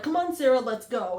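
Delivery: yank her out with your voice; urgent call. Retold or imitated. Calling Sarah out of the hole.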